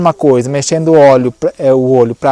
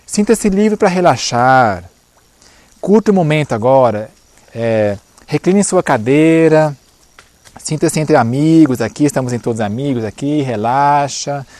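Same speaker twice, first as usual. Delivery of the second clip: soothing hypnotist voice. Shown as a demonstration. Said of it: "Acautele-se de linguagem permissiva. Por exemplo".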